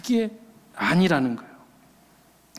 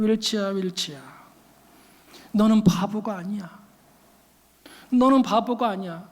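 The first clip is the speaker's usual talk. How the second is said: slightly lowered, gently consoling voice; comforting mother; 2 semitones lower than usual. Retold or imitated. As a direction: imitate a mother soothing her child, with pauses. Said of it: "하면서 다독여 주었다는".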